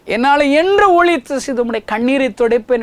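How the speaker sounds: high, loud cry begging Jesus not to weep; pleading loudly to a weeping Jesus; fervent plea to Jesus. Retold or imitated. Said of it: "என்று சொல்லி அவர் கைகளை ஒப்பு கொடுத்துருக்கிறேன்".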